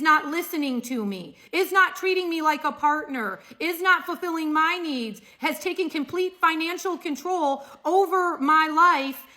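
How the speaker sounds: a lightly put-on whiny complainer; mock whining. Mocking Trump farmers who beg him to stop tariffs, whining. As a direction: whine like a neglected partner, half-hearted. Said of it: "And you're sitting there whining, going".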